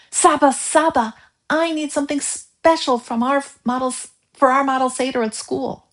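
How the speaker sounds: put-on high, breathless excited child calling his grandpa; excited boy. A narrator's reading. Boy rushing home to tell grandpa, excited and high. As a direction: burst in eager and high-pitched.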